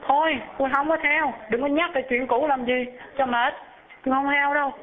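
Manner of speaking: high, impatient refusal; annoyed second wife. Acted. Second wife scolding her husband for dwelling on the past, high-pitched. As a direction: brush him off in a high voice.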